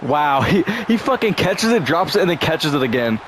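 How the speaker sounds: excited disbelief. Real, not acted. Gamer reacting live to a bobbled catch, high excited. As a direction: pitch jumps high on catches it.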